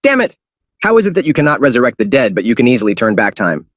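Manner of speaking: sharp high angry outburst, fading. Acted. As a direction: curse and then rage on. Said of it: "exclaimed in anger".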